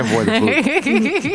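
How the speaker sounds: talking while chewing fries; words round a mouthful of fries; mouth full. Real, not acted. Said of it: "I'm chewing on French fries".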